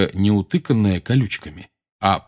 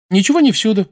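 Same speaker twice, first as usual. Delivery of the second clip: put-on high, brisk girl's objection; objecting girl; 12 semitones higher, 6 dB louder, faster than usual. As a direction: contradict him lightly, voiced high. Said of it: "возразила Джинни".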